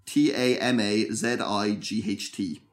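slow, letter by letter; spelled out. Shown as a demonstration. Co-host asked for the spelling, slow careful spelling out. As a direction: spell T A M A Z I G H T slowly, each letter separate.

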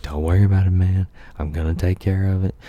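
imitating the buddy's breezy reassurance; mock reassurance. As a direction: brush it off loudly and cheerfully. Friend reassuring the panicking narrator.

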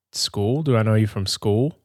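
lightly imitated innocent puzzlement, rising at the end; innocent questioning. Mother unsure how she knows her son, imitated innocent question. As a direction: ask it innocently, a mild retelling. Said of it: "looking at him very innocently".

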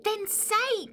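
loud, slow, high command; furious demand. Acted. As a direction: demand it loudly, stretching each word. Partner demands action in quarrel.

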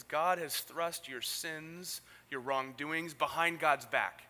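slow, weighty scripture reading; slow emphatic reading. Acted. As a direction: read it slowly, each word weighted.

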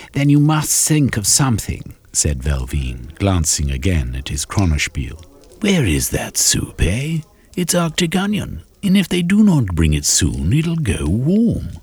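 put-on high, fussy old gentleman; Velveen fretting. Velveen complains to the table about late soup, high fussy voice. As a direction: fuss impatiently about the soup.

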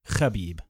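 "Khabib" with a throaty kh at the start; corrected pronunciation. Shown as a demonstration. One-upping co-host on the name, throaty-kh "Khabib". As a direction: scrape the first sound of "Khabib" in the throat. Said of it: "I think you actually pronounce it".

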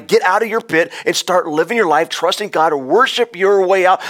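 high, loud revival preaching; full-force pulpit exhortation; fiery preaching. Acted. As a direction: preach it hard to lift them out of the pit. Preacher rallies listeners at full force.

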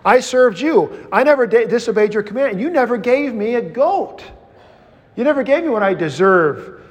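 put-on older son protesting to his dad, aggrieved; resentful complaint. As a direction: throw the grudge back at your father. Resentful older brother complains to father.

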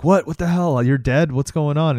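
mock shocked questioning; bewildered. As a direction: act out a startled man demanding answers. Startled dead man, retold film.

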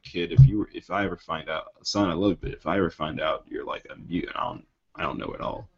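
soft, hushed threatening father; a dad's quiet warning to his son; stern dad. Retold or imitated. Father warning his son about mutants, hushed menace. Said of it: "he's like".

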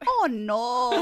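"Oh, no" with Spanish-style vowels; playful Spanish-accented toddler dismay; imitated Spanish accent. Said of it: "say it a little bit more like in Spanish".

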